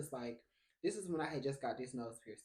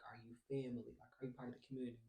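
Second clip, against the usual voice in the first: softer, lower are you family, meaning part of the community; insider meaning; 3 semitones lower, 5 dB quieter, much faster than usual. Shown as a demonstration. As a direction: murmur it as the old slang check for community. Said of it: "this is what we say".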